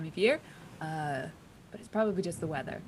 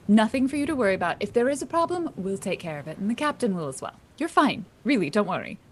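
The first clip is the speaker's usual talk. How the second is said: louder, brisk reassurance; firm reassurance; 6 dB louder than usual. Acted. Crew member assuring a nervous passenger, firm. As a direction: dismiss the worry firmly.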